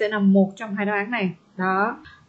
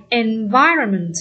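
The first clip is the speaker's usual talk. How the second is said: "Environment" slowed, weight on -VI-; stress on second syllable; slower than usual. Shown as a demonstration. Teacher confirming the answer for students, stress on second syllable. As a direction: lean slowly on VI in "Environment". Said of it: "Nhấn âm hai".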